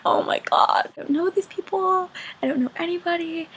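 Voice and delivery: hushed mock-panicked inner voice; panicked whisper. Student among strangers in class, panicking in a whisper. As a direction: whisper it, rising into a small high squeak.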